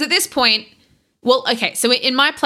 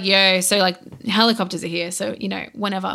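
flat deflated; 3 semitones lower, 3 dB quieter than usual. Retold or imitated. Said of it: "she's not excited".

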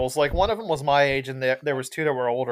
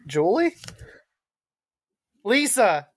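high, loud mock yell of Tommy Wiseau; 12 semitones higher, 6 dB louder than usual. Quoting the movie's famous line, a high loud Tommy Wiseau yell. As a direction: ham up the melodramatic Wiseau outburst. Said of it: "He yells it".

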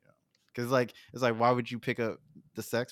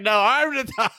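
higher, louder laughing brag; mock boast; 10 semitones higher, 10 dB louder than usual. Teasing a friend by voicing his laughing brag. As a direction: crow it through laughter. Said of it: "You're like".

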